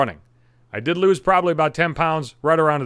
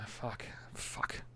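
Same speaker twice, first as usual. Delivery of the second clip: breathless whispered fuck under his breath; exasperated whispered swearing; whispered cursing; 4 semitones lower, 22 dB quieter than usual. Real, not acted. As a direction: hiss the curses to yourself, boiling over. Frustrated rant dies into swearing.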